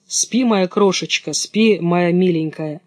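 slow tender lullaby tone; a touch of a lullaby; lulling. Acted. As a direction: hush her to sleep gently. Robber girl lulls Gerda.

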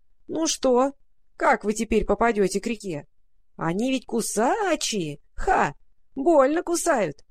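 high, creaking gloating voice; creaky rat-crow voice. Acted. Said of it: "донёсся скрипучий голос".

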